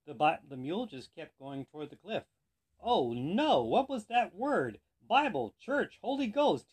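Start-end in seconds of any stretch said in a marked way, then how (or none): 2.8-6.7 high, loud, frantic searching for a word; panicked shouting. A narrator's reading. Rider heading for the cliff, guessing the word, shouting. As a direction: cry out guesses in mock panic. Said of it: "he shouted the man".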